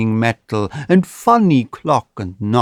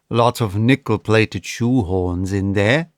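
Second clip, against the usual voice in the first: cool; 3 semitones lower than usual. Acted.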